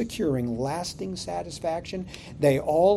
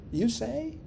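incredulous question; 6 semitones higher, 4 dB quieter than usual. Retold or imitated. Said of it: "Did you just say that, Pastor?".

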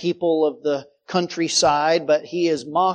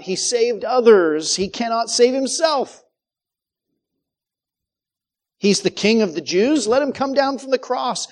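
acted taunts, slightly raised and emphatic; lightly mock the helpless victim as a jeering onlooker; 3 semitones higher than usual. Jewish leaders taunt Jesus on the cross, mildly mocking. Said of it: "the mocking in their voice".

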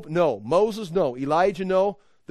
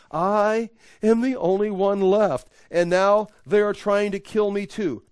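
raised, higher-pitched self-pitying protest; aggrieved complaint; 4 semitones higher, 4 dB louder than usual. Acted. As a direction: plead your case, indignant and emphatic. Reads Elijah's self-pitying complaint aloud.

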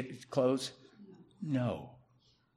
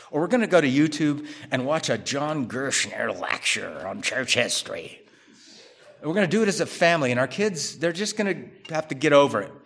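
husband's announcement. Retold or imitated. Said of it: "the husband says".

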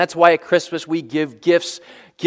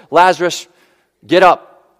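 commanding call; 6 dB louder than usual. Retold or imitated. Jesus telling Lazarus to rise, loud command. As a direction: get up rising louder at the end. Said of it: "He just says".

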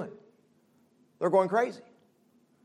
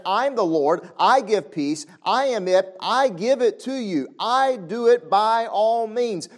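slow, measured and firm; voicing God; 5 semitones higher, 3 dB louder, slower than usual. God promising peace, slow firm declaration. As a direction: give each promise its own weight. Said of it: "He's saying".

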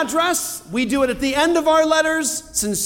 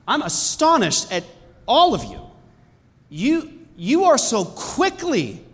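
mad pastor. Acted. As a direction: scold the flock as if hurt and shocked. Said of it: "Pastor Jeff is mad".

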